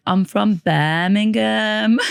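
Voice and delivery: mock-Brummie, half joking; Birmingham accent. A hint of a Brummie accent as she jokes about sounding like a local. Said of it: "I picked up the Birmingham accent".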